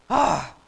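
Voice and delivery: big breathy "ah"; loud sigh. Acted. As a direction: let out a heavy sigh. Lazy turkey settles down.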